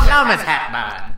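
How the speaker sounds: lightly voiced Bill Hader bit; Bill Hader impression. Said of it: "This is just me doing Bill Hader doing this".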